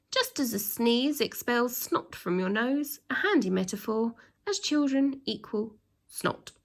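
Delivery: lightly voiced pompous headmaster laying down the law; a hint of a strict, self-important headmaster; stern headmaster. Headmaster announcing his rules to the pupils, stern and pompous.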